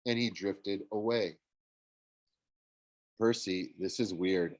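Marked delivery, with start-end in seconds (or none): 3.2-4.6 softer, lower worried whisper. A narrator's reading. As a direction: hush it to your friend. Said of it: "Annabeth whispered".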